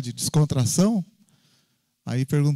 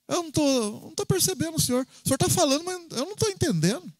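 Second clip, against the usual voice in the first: pleading prayer; 13 semitones higher, 3 dB quieter, faster than usual. Pretend.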